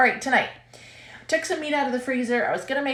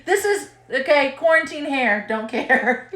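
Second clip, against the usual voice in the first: laughing; 5 semitones higher, 5 dB louder, slower than usual. Real, not acted. Laughs about messy hair.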